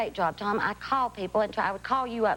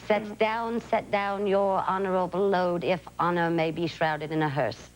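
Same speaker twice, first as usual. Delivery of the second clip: formal stage delivery, free of Southern accent; without Southern accent; 2 semitones lower than usual. Shown as a demonstration. Actress proving to a caller she can lose it, without Southern accent. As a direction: recite with the Southern accent dropped. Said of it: "can you speak without it for me".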